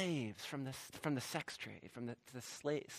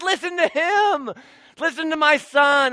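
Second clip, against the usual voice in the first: voice of the Father; 8 semitones higher, 7 dB louder than usual. Retold or imitated. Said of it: "and the Father said".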